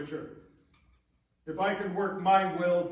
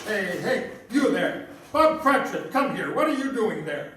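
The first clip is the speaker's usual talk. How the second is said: sharp call; 4 dB louder than usual. Acted. Scrooge catches clerk at the coal.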